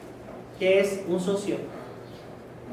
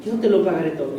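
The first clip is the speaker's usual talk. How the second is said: lower, sarcastic repeat of the promise; mocking the lie; 3 semitones lower, faster than usual. Preacher mocking the servant's false promise, sarcastic. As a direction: scoff at the empty promise. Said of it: "Escuchen la mentirona".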